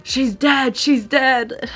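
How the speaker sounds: loud, high, crying she's dead; dad panicking on phone to mom; panicked wail. Retold or imitated. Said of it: "he's saying".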